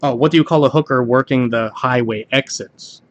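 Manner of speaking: ordinary talk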